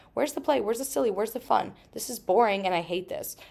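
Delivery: lightly voiced cross child; mildly petulant child voice; mad inner child. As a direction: rattle off demands like a bored kid. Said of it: "she had that kind of energy".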